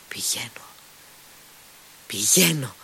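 decide aloud, from hush to cry; hushed resolve breaking into a call; sudden cry. A narrator's reading. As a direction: whisper that bursts into a cry. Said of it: "φώναξε ξαφνικά".

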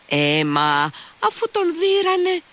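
high, amused exclamation; laughing shout. A narrator's reading. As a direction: call it out through a laugh. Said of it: "φώναξε γελώντας ο Μήτια".

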